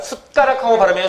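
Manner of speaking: "숟가락" said casually as 숙까락, ㄷ turned to k; colloquial pronunciation. Shown as a demonstration. Teacher showing students how people really say it, colloquial pronunciation. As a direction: say "숟가락" with the first syllable closing in k. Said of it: "솔직히 이렇게 발음하죠".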